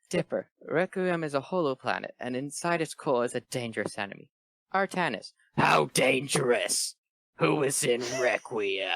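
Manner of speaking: lightly rasped smoker voice; a hint of a heavy smoker. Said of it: "I could use my smoker voice".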